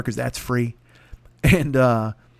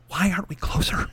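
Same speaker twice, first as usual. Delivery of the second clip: softer passing grumble; muttered complaint; 2 semitones higher, 5 dB quieter than usual. Retold or imitated. Pardo grumbles while walking past, softer.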